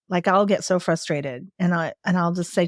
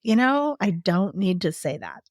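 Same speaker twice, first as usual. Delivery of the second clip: calm. Retold or imitated. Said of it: "I have learned to just calmly say".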